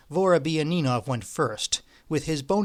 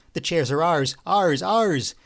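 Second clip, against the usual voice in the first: jubilant; 3 semitones higher, 4 dB louder, slower than usual. A narrator's reading. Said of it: "His whole body was shouting it".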